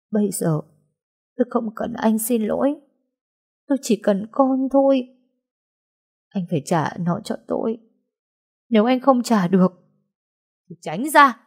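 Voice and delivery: rising, tearful demand, high-pitched; grieving mother pleading with husband; tearful plea. Acted. Grieving mother demands her child.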